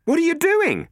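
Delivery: high, loud demand. Acted. Matt demanding to know what Robin is doing, loud. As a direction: demand an answer at once. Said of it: "Matt demanded".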